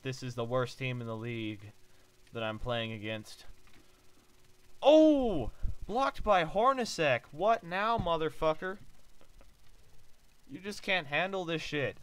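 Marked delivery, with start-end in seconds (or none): 4.8-12.0 high loud gloating yell; excited taunt. Real, not acted. Gamer taunting the opponent after a block, loud gloating yell. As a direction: rub the block in their face.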